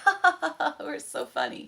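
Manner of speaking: high-pitched mock laughing children; imitated giggly kids. Girls delighted by their knock-knock jokes, mock laughing. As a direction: mimic kids cackling at their own joke.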